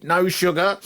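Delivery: high, rising tea request; suddenly roused old patient. Retold or imitated. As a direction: pipe up, suddenly alive, pitch lifting. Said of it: "woke up and said".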